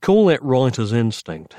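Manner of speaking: lightly drawled reply. Acted. Writer answering the receptionist, light drawl. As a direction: give it a touch of a drawl. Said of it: "he drawled".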